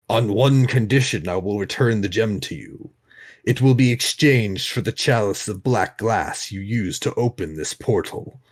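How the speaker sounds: slow, lordly sultan voice; drawn-out, regal bargaining; grand languid royal commands. Acted. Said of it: "I'm having fun doing the Sultan's voice".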